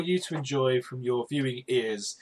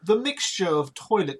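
put-on posh accent; 3 semitones higher than usual. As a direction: read it like a plummy aristocrat. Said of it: "in a posh accent".

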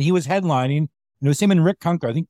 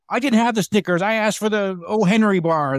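imitating a customer flipping out; 5 semitones higher than usual. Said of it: "like, flip out".

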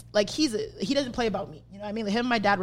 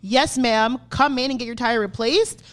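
emphatic re-enacted telling-off; pissed. Fed-up customer demanding a tire or a refund, pissed. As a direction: lay down the ultimatum, fed up. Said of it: "and I'm pissed".

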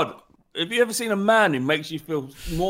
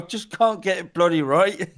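Yorkshire grumble; 6 dB louder than usual. Pretend. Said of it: "And he goes".

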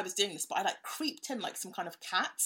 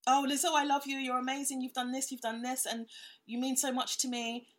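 gushing fan; 5 semitones higher than usual. Retold or imitated. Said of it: "and I was like".

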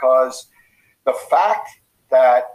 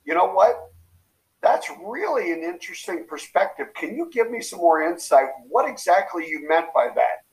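polite and curious; 3 semitones higher than usual. Shown as a demonstration. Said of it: "What you do is say".

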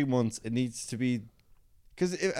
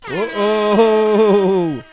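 high loud alarmed uh-oh; 9 semitones higher, 10 dB louder than usual. Real, not acted. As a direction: sound the alarm. Reacting to lottery miss.

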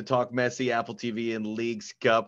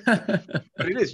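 laughing; 9 semitones higher, much slower than usual. Real, not acted. Laughing after the joke.

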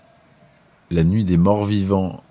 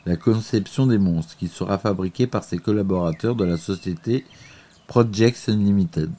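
reading a prepared text aloud; steady read-aloud narrator voice; documentary narration; 3 semitones higher than usual. Acted.

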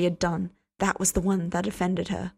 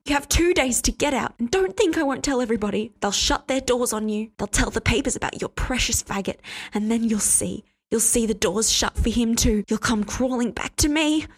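threatening; 4 semitones higher, 3 dB louder than usual. Acted. Hester threatening him.

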